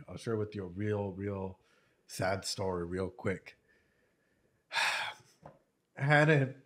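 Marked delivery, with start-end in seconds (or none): 0.1-3.6 soft sad. Real, not acted. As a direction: hush down for a sad story. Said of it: "a sad story".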